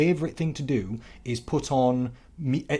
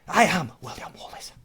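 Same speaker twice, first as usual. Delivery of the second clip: higher-pitched Scottish declaration; William Wallace; 4 semitones higher than usual. Acted. Re-enacting the horse scene from the movie, Scottish accent. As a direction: announce yourself in a heroic Scots brogue. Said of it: "you did a good accent".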